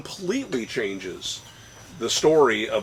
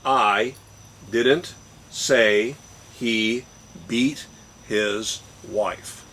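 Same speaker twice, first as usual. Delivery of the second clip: word-by-word reading; much slower than usual. Shown as a demonstration. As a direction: separate each word with a pause. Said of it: "It says".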